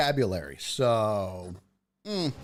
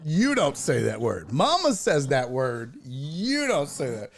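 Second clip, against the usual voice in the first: mock parental scolding. Voices mother scolding her toddler.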